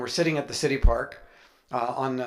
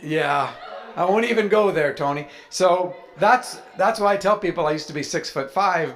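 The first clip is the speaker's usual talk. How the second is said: laughing; 4 semitones higher, 4 dB louder than usual. Real, not acted. Laughing at his own joke.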